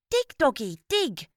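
put-on little boy cheering on the dog; lightly voiced little boy. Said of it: "he repeated".

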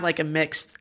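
words dissolving into breathy laughter; breaking into laughter. Real, not acted. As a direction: lose the voice to giggles mid-sentence. Breaking up while joking.

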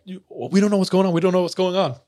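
put-on scared teenagers pleading with the big guys; panicked plea. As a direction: beg them to stop, scared kids.

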